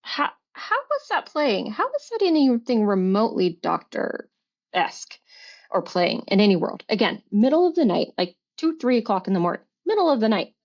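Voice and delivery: incredulous questions, pitch swooping up on key words; retold indignation. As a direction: hammer the point home, reliving the argument. Retold confrontation with her ex.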